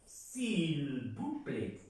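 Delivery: s'il vous plaît stretched very slowly; slow model French. Shown as a demonstration. Teacher adding s'il vous plaît slowly. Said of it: "podemos agregarle".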